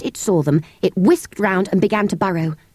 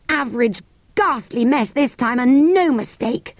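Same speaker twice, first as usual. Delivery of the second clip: lightly voiced boy, complaining; hint of an exasperated lad, lively emphasis; worried boy; 5 semitones higher than usual. Boy fretting about the jewels, mildly exasperated.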